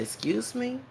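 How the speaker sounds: put-on high, soft valley girl question; valley girl accent. Girl answering his Spanish question, valley girl accent. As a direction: imitate a valley girl's upturned accent. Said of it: "she had a violent girl accent".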